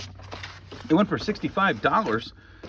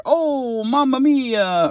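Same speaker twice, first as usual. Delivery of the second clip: mock Italian exclamation; 5 semitones higher, much slower than usual. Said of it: "And the Italian Bear".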